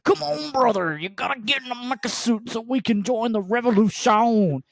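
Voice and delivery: high, theatrical hello brother; character voice. Retold or imitated. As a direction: ham it up like a costumed hero. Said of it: "he would not break character".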